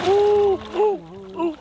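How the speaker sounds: loud high excited oohs. Real, not acted. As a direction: cheer the strike with high oohs. Fish attacking bait.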